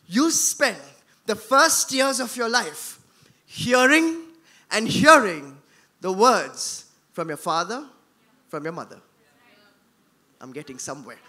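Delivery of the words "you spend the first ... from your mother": word by word, long pauses between phrases; slow with pauses. Shown as a demonstration. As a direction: lay each phrase down slowly, pausing. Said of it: "listen to this very carefully".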